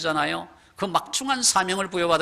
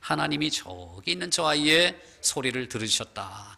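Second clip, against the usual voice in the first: comforting God voice; 4 semitones lower than usual. Acted. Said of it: "그렇게 위로해 주십니다".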